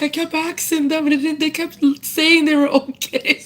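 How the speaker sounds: mild mock of a puzzled friend; high imitation of Peter. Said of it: "And he's like".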